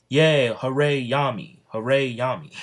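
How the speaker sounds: mock cheering. Crowd cheering for Yami.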